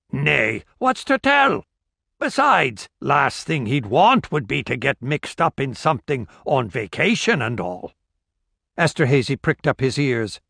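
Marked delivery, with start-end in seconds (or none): 0.1-7.9 a hint of a dismissive old gossip; old village woman. Old woman waving off the constable idea, lightly voiced.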